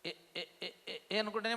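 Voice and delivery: imitating a stammer; mimicking a stammerer who still talks to the world; mock stutter. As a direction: stutter it lightly as a mocking aside. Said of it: "నత్తివాళ్ళు".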